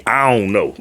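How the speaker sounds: a long, stretched Southern drawl on "I don't know", the vowels pulled out and nasal. Shown as a demonstration. Host shows how a rap collective talks, in a lazy Southern drawl. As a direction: show how Georgia folks say "I don't know", drawling every word. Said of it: "Man, they talk like".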